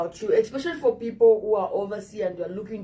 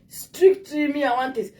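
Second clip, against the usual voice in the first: demanding dater; 3 semitones higher than usual. Retold or imitated. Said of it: "like, um".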